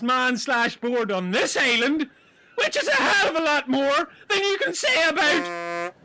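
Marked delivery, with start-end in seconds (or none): 2.6-5.9 indignant rant. Acted. Jimmy defending Kev to Ron, indignant shout. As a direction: tell him off.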